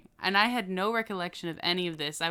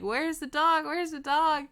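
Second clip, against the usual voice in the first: higher-pitched imitation of an angry man; mock yelling; 8 semitones higher than usual. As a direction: demand it in a mild retold yell. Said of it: "he starts yelling at me".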